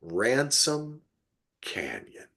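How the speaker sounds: "Ransom" and "Canyon" given apart, each word set apart; slow, spelled-out title. Shown as a demonstration. Repeating the show title for listeners, slow and deliberate. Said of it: "I'm gonna say it again, just so you remember this".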